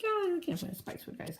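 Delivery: very high, small cartoon voice; worried character voice. Acted character searching from hiding.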